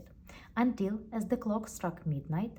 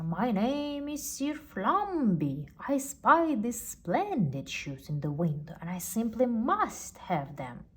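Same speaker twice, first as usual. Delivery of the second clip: lightly voiced pompous gentleman; 4 semitones higher, 3 dB louder than usual. Sir Flumby demands the shoes, lightly pompous.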